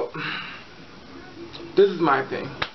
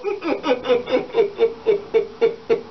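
high giggles running out of breath; helpless laughing; 6 semitones higher than usual. Real, not acted. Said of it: "I'm laughing".

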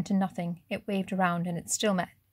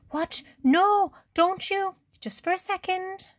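much higher, panicked cry; 12 semitones higher, 5 dB louder, slower than usual. A narrator's reading. Sophie mid-gap as Matteo lets go, panicked and high. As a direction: plead for him not to let go.

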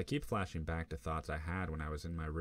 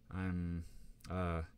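stammering. Acted. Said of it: "I stammer".

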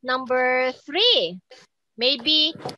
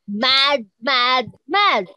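mad face; 3 dB louder, much slower than usual. Shown as a demonstration. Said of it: "you show your mad face".

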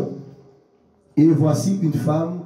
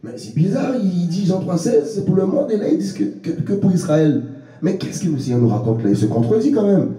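imagined puzzled objector; 3 semitones higher than usual. Acted. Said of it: "on peut sous-entendre que ça se contredit".

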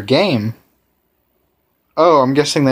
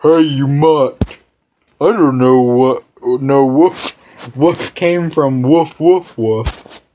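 hammed-up rough dog, drawn out and slow at first; cringy mutt voice; much slower than usual. Stray dog taunting the player, hammed-up gruff. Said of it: "I'll do some cringy voices".

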